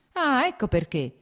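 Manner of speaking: esclamazione forte e acuta; grido improvviso. A narrator's reading. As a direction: scatta gridando di colpo. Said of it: "gridò ad un tratto Nikolai". (gridato all'improvviso)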